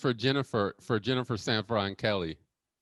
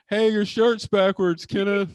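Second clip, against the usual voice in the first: slow, higher, sing-song teasing imitation; mock Jennifer; 9 semitones higher, 7 dB louder than usual. Mocking Jennifer's late warning about his shirt, slow and higher. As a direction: lightly mimic her, drawn out. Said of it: "like, the last minute to be like".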